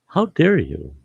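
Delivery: How dare you? flung out high in disbelief; how dare you, thrown out high; high-pitched outrage. Real, not acted. Outraged at people altering memories.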